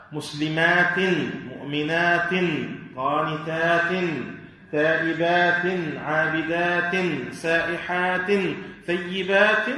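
each word from مسلمات to ثيبات ends in a held "in"; kasr tanween sounded. Shown as a demonstration. Teacher listing verse examples of kasr tanween, each "in" ending sounded. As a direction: ring out "-atin" on every word, مسلمات through ثيبات. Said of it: "تنوين كسر، يثبت في حال الوصل".

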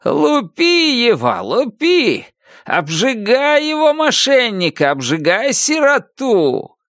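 high, gloating shouted orders; officer yelling at soldiers to beat harder; gleeful shouting. A narrator's reading. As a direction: egg the soldiers on with glee. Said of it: "и слышится опять".

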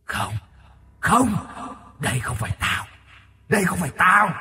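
hammed-up corpse shriek of denial; shrieking hag. Corpse wife seeing her face in the mirror, hag shriek. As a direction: scream in horror at the mirror. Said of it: "bất chợt hét lên".

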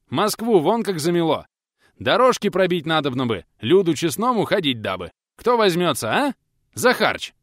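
excited shouted appeal to a crowd; eager shout. A narrator's reading. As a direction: whip up the crowd with gusto. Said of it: "азартно выкрикнул пенсионер".

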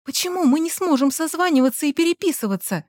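lightly voiced girl, high and pleading. A narrator's reading. Gulya asking her boyfriend, a hint of a high plea. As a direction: ask it like a hurt girl. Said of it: "спрашивала она".

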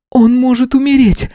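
the healer cries out that he may die; frantic cry. A narrator's reading. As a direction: cry out in alarm. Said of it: "раздался крик Кицуни-лекаря".

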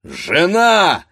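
loud, commanding call to his wife; husband shouting at his wife to stop; stern shout. Acted. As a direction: bark it out like a master of the house. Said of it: "крикнул грозно пан Данило".

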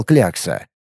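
slow roaring brute shouting threats; battle-crazed brute. Acted. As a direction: roar like a berserker, slowly. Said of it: "Демонстрировал небывалый боевой дух".

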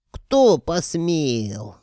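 high, loud, very slow howl; roaring ghost. Acted. Wizard learning his girl is taken, roaring. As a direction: roar it in outrage. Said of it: "взревел колдун".

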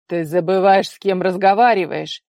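loud furious rebuke; enraged father. A narrator's reading. Father enraged at his daughter's cheek, loud rebuke. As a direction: put her in her place with rage. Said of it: "ещё больше взъярился отец".

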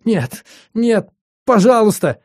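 high, desperate begging; tearful pleading. Acted. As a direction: plead for mercy through tears. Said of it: "умоляюще запричитал".

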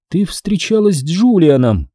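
categorical statement, no room for doubt; flatly certain. A narrator's reading. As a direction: state it as fact. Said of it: "безапелляционно заявила она".

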